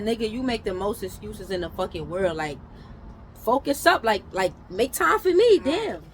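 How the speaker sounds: heated retort. Retold or imitated. To his best friend who keeps making excuses, an exasperated building shout. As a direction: scold the friend, building to a shout on make time for me.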